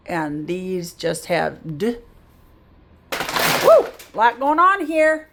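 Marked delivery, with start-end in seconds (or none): 3.6-5.3 excited woo. Real, not acted. Cheering at busy word list.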